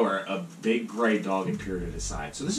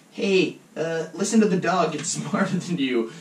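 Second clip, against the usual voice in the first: loud, high-pitched mom voice breaking into laughter; high mock yell through giggles; scolding mom; 10 semitones higher, 9 dB louder than usual. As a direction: nag like a worried mother, cracking up. Voicing priest's scolding mother, cracking up.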